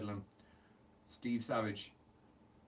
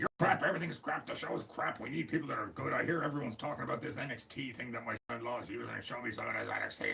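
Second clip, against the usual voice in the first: angry boss rant; 2 semitones higher than usual. Pretend. Impersonating Vince ranting.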